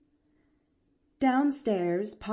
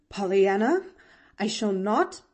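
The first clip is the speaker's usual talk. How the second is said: protesting; 6 dB louder than usual. A narrator's reading. Aunt resisting being dragged along.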